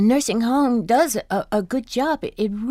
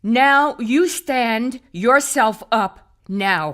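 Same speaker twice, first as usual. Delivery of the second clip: slow, stern order; stern command; 5 semitones higher, slower than usual. Acted. Wife ordering Carl to stand, slow and stern. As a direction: lay down the law slowly.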